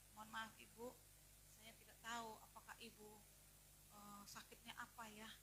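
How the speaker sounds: hesitant apology. Retold or imitated. Doctor apologizing to a sick woman before asking, soft and tentative. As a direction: ask gently and a little haltingly.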